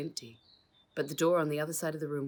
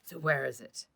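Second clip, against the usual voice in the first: yelled; 3 dB louder than usual. Acted. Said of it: "yelled Patrick".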